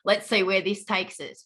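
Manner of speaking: low, mildly jaded inner voice; resigned, eye-rolling aside; eye-rolling scepticism. Retold or imitated. Client recalling first doubts about her case manager, eye-rolling scepticism. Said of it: "that whole eye roll".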